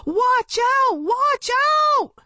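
high, loud repeated shout; panicked warning. Acted. Warning about the truck.

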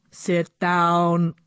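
flat computery commanding voice; robot voice. Acted. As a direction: bark it out like a machine. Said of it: "the robot commanded in a computery voice".

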